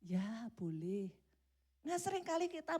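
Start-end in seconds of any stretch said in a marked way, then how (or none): 0.0-1.1 slow, lower, grudging yes; reluctant giving in. Acted. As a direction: sigh it out, worn down by nagging.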